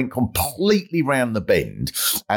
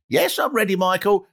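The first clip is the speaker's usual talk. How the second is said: higher, keen little voice; eager contestant; 8 semitones higher than usual. Retold or imitated. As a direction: chirp it like a nervous contestant.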